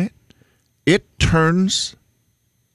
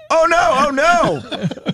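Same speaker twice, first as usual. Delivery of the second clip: high, laughing cries of oh no; mock alarm breaking into laughter; mock panicked yelling; much slower than usual. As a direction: ham up the panic as you retell it. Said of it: "I hear yelling".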